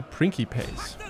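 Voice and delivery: "Principes" with a hard K for the c; "Principes" with "ki" in the middle, not "si"; Classical Latin pronunciation. Shown as a demonstration. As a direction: say "Principes" as PRIN-ki-pays. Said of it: "hard K sound".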